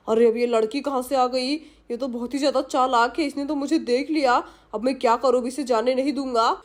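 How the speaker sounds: scheming thief musing to himself, lightly acted; a touch of a greedy burglar plotting aloud; lightly voiced thief. Voices thief spotting the girl.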